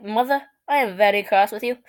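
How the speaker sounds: imitating a proper British accent; mock-British delivery; strong British accent. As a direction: play the cross British toddler. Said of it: "in a strong British accent".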